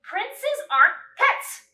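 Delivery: high, loud protest; cried out. Acted. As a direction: cry it out indignantly. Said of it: "Cassandra cried".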